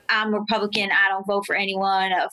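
low mock dude voice; young Republican guy. Young voter brushing off a phone banker, low mock dude voice. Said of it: "the twenty-three-year-olds who are like".

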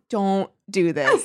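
slow, drawn-out please don't; pleading slowly. Retold or imitated. Reader begging Becky slowly to stop. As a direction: beg her slowly to stop. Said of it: "And I was like".

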